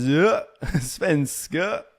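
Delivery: SVENSKA drawn out slow, swooping up at the end; exaggerated dip and rise on svenska; down then up. Shown as a demonstration. Showing a Swede the lilt, SVENSKA dipping then rising. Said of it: "it goes down and then it goes".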